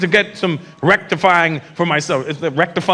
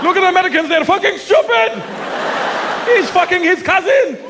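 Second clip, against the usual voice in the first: put-on Arab accent; 10 semitones higher than usual. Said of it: "all they show them of America is Jerry Springer".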